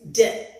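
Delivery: "d" as a short, loud "duh"; phonic D sound. Shown as a demonstration. Teacher giving the sound of D, punched "duh". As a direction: say "d" as its sound, not its name. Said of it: "D says".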